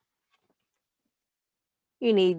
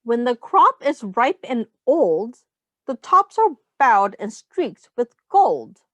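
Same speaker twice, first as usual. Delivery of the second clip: put-on reading to children; 3 dB louder than usual. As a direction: read the rhyme aloud to the class. Reads picture book to children.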